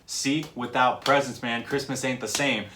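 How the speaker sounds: "See" kicked off short, then the groove; bouncy rapped line, kick on "See"; little kick on See. Retold or imitated. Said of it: "doing that little kick there on".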